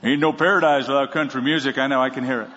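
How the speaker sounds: a light twangy heckler voice; lightly voiced offended country fan; mock country fan. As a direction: play a country-music lover objecting.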